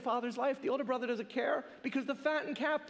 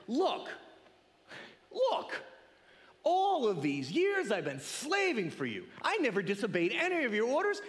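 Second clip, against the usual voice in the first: mock angry outburst. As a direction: complain to dad like a bitter older son. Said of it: "he lets the father have it".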